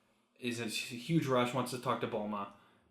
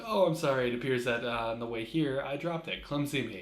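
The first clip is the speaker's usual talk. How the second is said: feigned apology; 4 dB louder than usual. Retold or imitated. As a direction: act out an oh-so-innocent excuse. Feigned apology in retold scene.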